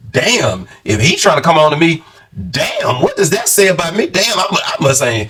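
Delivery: mock-horrified, asking himself what's wrong with him; mock inner panic. Vlogger imagining being hit on, mock dismay. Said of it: "'cause I'd be like".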